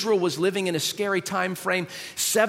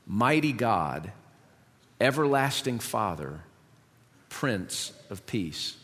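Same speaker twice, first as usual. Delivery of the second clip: scripture reading; 4 semitones lower than usual. Acted. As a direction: read it solemnly, lower, with long pauses between titles. Reads scripture aloud to congregation.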